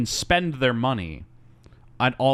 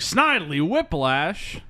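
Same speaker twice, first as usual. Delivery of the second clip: Dudley; 5 semitones higher, slower than usual. Retold or imitated. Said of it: "pulls Snidely. He's like".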